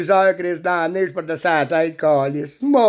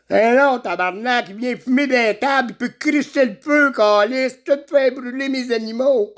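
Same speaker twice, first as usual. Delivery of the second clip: raised-pitch mock scolding; scolding father; 4 semitones higher than usual. Father scolds son for smoking near the animals, mock angry. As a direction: fuss at the son in a higher voice.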